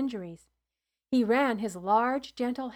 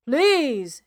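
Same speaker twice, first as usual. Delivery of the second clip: 1 pleading cry; 4 semitones higher, 9 dB louder than usual. A narrator's reading. Father begging for injured son.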